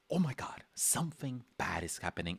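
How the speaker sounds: a startled "oh my God", then a whispered realization that something's wrong; mock scared whisper. Artist voicing a scared drawing, breathless mock whisper. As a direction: pretend fright, breathing out the words. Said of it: "someone that is, like, scared".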